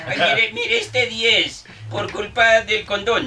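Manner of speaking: high, slow, giggling read; laughing. Real, not acted. Host reading the joke title, laughing slowly. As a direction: drag it out between laughs.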